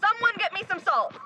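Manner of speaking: urgent shout. Acted. Rhea holding off the ghost, urgent shout. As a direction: shout for help mid-fight. Urgent call during attack.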